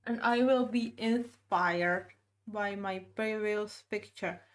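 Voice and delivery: words muffled around a paintbrush; talking with brush in mouth. Real, not acted. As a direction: speak with a brush between your teeth. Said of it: "that's why I'm talking like this".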